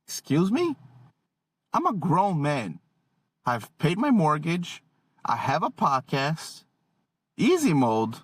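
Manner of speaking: mock-offended dad, pitch jumping on the opening question; wounded pride played for laughs; indignant. Dad offered easy mode by his son, indignant.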